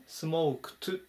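"smouk-t", the D devoiced; smoked with final t. Shown as a demonstration. Teacher showing the past form, t sound ending smoked. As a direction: end smoked on a voiceless t. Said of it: "後ろのDも濁らずに".

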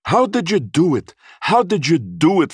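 high, loud amazed question; marvelling, high-pitched exclamation; astonished. A narrator's reading. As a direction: ask it in utter amazement, voice way up. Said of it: "shake his head in astonishment".

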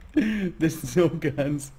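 "There's no guns" drawn out slowly through a laugh. Real, not acted. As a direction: laugh while stretching "no".

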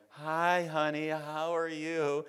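high, soft sweet voice of the wife. Retold or imitated. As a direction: voice her gently, up high.

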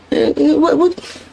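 very high mock white accent; Blue's white accent. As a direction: imitate white talk way up high. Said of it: "Blue had the accent".

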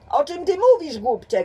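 high, loud angry retort; shouting back. A narrator's reading. The detective shouts back at James in the crowd, angry yell. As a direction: yell back at him in outrage. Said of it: "krzyczał drugi".

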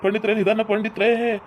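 drawn-out wails of a hurt leg; acted pained wailing; crying in pain. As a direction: plead and moan as the leg is handled. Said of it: "ಯಾಕೆ ಹಿಂಗ್ ಅಳ್ತಿ".

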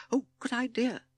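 very high little toad voice; excited toad. A narrator's reading. Timid Toad approving Bat's boulder plan, excited. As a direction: pipe up with delighted approval.

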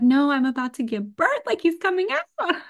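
high, loud urgent retelling; urgent alarm. Retold or imitated. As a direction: insist the baby is coming now. Retold urgent labor reply.

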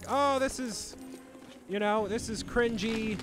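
high whiny voice, drawn out; whiny mock complaint. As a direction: act bored and annoyed. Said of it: "you're like".

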